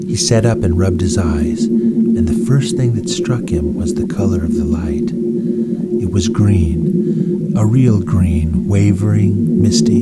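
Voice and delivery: lightly dramatic storybook reading; story narration. A narrator's reading. Narrator reading a space adventure to listeners, lively storytelling. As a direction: tell it like a bedtime adventure.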